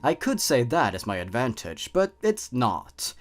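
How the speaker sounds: teasing, menacing hidden creature; sinister creature voice. Acted. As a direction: toy with the listener like a predator. Creature narrates as poison.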